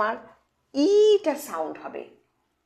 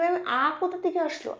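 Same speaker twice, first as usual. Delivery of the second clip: imagined student question; 6 semitones higher, faster than usual. Pretend. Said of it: "তুমি বলবে".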